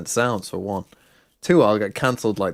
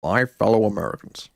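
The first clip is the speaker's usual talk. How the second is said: lightly imitated presidential address; a hint of an American president opening a speech; Obama-ish; 2 semitones lower than usual. Shown as a demonstration. Caster trying an impression that turns presidential, lightly done. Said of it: "I just turn into kind of Obama-ish".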